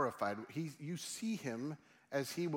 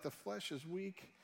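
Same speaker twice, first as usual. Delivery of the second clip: softer, slightly raised gentle voice; gently understanding, unhurried; kind; 3 semitones higher, 4 dB quieter than usual. Acted. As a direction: let them down softly and kindly. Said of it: "And he's kind about it".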